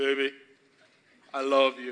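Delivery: very low, soft, deepest possible voice. Demonstrating saying it to a partner: deepest voice you have. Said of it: "you can use the deepest voice that you have".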